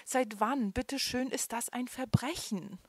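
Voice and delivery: high, loud, indignant panic on "Verbrechen"; frightened man protests to police, voice trembling. A narrator's reading. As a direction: plead it, scared and outraged. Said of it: "erklärte er mit zitternder Stimme".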